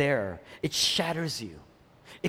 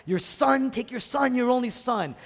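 a hint of a grieving God, lifted and pleading; God's voice, lightly grieving over the son; 6 semitones higher than usual. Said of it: "It's almost like God is grieving".

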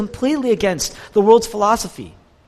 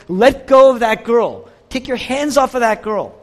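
raised, forceful retold shout; shouted command; 4 semitones higher, 5 dB louder than usual. Bystander shouting at an attacker to free her, retold shout. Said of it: "even shouted out and said".

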